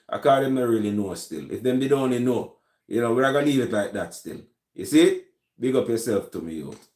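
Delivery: light Jamaican patois, easy and casual. Shown as a demonstration. Greeting a viewer in chat, light Jamaican patois. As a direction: slip into relaxed Jamaican yard talk. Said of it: "I'm just not really talk like that more time".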